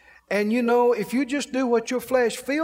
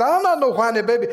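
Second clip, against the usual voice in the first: mock protest; 5 dB louder, faster than usual. Jesse retorting in mock protest.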